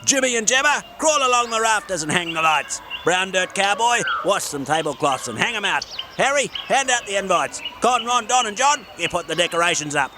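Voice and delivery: high, bossy little gnome; cheerful small gnome with a plan; Gordon the gnome. Acted. Gordon shouts out orders.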